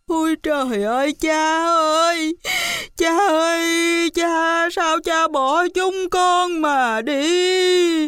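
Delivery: high wailing cry, drawn out; wailing sons. Acted. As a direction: sons sobbing for their father, high and slow. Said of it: "chỉ khóc lóc".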